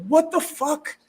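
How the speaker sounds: half-asleep and startled, rising in pitch; groggy surprise. Retold or imitated. Woken by the chewing dog at night, softly startled. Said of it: "You're like".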